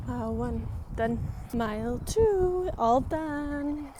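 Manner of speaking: puffing through the miles, calling them out; while walking. Real, not acted. Calling out miles during walk.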